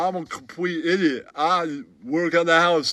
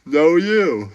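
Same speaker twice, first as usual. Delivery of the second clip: high, squeaky put-on character voice, with giggles; squeaky comic voice; 12 semitones higher, 4 dB louder than usual. Comic sidekick telling a bar story in a squeaky giggling voice. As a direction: play a giggling oddball sidekick.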